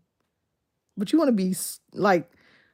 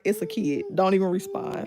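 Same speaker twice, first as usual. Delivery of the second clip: inner voice; 3 semitones lower, 6 dB quieter than usual. Retold or imitated. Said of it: "in my head, I automatically be like".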